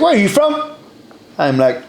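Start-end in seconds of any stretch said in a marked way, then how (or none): 0.0-0.7 very high, lilting question; imitated curious woman. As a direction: put on her high voice, asking keenly. Woman repeats question about his origin.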